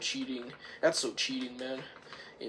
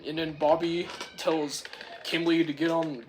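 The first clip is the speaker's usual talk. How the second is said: ordinary delivery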